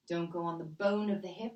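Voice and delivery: strained, holding the breath. Real, not acted. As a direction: talk through a held breath. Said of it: "as I'm holding my breath".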